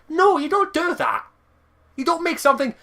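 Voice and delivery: 1 angry. Real, not acted. Ranting at Microsoft.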